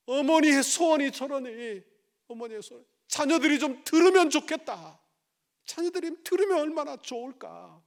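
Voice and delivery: loud, high, urgent sermon voice; fiery preaching. Acted. Pastor rebuking the congregation, fiery preaching. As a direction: drive the point home to the congregation.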